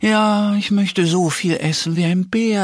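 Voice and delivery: a thin, hungry hedgehog complaining. Acted. Hedgehog answers.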